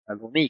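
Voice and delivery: "Adoní" stressed on its last syllable; stress on final í. Shown as a demonstration. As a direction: put the accent on the í of "Adoní". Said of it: "con acento en la I".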